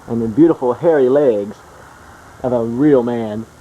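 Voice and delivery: lightly voiced mock documentary narrator; nature documentary. Mock wildlife narration about Dad.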